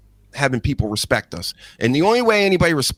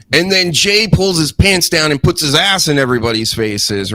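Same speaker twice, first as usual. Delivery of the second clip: slightly raised, louder pitching voice; imagined pitch; 3 semitones higher, 4 dB louder than usual. Pretend. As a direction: lightly act out an eager storyteller. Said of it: "He'd be like".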